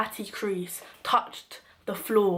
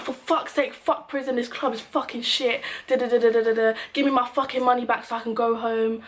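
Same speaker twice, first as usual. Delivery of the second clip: replaying her own blow-up in a raised voice; furious rant; 3 semitones higher than usual. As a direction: vent it, fed up and swearing. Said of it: "my anger has gone to another level".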